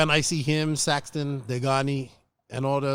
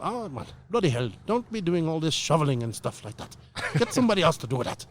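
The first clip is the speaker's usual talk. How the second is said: put-on failed Irish accent; 3 semitones higher than usual. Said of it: "my failed attempt at an Irish accent".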